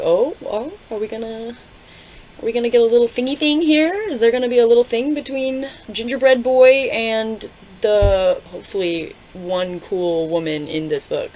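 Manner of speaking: high, loud gushing tease; gushing princess impression. Reviewer voicing Princess Nehemia, teasing the pair, loud and gushing. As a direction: play the princess teasing a budding romance. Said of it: "who comes up, like".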